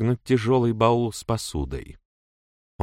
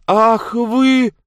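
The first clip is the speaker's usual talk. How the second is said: much higher, loud outraged cry; shout; 10 dB louder than usual. A narrator's reading. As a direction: fling it at her in fury. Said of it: "крикнула Мэдж". (возмущённый крик, высоко и громко)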